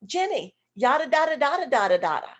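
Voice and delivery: loud sing-song yada da da; rhythmic gibberish question. Shown as a demonstration. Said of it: "What Jenny is hearing is".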